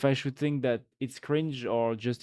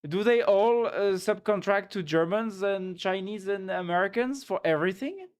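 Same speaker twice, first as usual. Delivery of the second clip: incredulous rant; 7 semitones higher, 4 dB louder than usual. Real, not acted.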